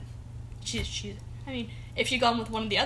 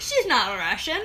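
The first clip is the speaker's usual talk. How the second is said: a weak, hammy fake Russian accent; a clumsy attempt at a Russian accent; bad Russian accent; 6 dB louder, slower than usual. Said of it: "That's a really bad Russian accent".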